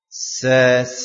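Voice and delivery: sasisubas with a long hissing s. Shown as a demonstration. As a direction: hiss every s like a grasshopper. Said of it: "kita baca". (desis s seperti belalang)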